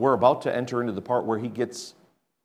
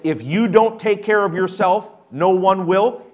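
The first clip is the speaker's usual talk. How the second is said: louder mock quote; 5 semitones higher, 4 dB louder than usual. Shown as a demonstration. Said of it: "let me say that again".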